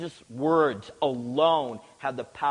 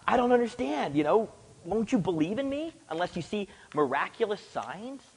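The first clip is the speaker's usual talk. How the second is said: higher-pitched, exasperated mock challenge; seemingly hostile; 4 semitones higher than usual. Preacher imitating Jesus' response to the official, mildly hostile. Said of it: "in a way that seems so hostile".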